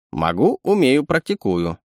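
a sly little animal sidekick; sly chittering raccoon. Acted. Raccoon brags.

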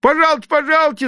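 very high, fast, loud cry after the buyer; calling out. A narrator's reading. Vendor shouts after the leaving gentleman, fast and high. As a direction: call him back urgently. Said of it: "закричал продавец".

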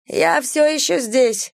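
high, slow call. A narrator's reading. Vanetta calls from inside the hole, high drawn-out call. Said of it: "позвала она".

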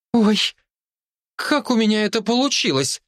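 put-on high, amazed child; surprised girl. A narrator's reading. Girl amazed after kicking the man, high surprised. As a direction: marvel at her own kick. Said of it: "удивилась девочка".

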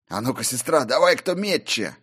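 excited challenge. A narrator's reading. Warrior challenges sister mid-battle.

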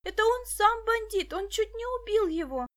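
put-on girl protesting at the policeman; shouting. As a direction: yell the accusation. Dasha keeps shouting.

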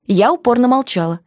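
usual speaking voice

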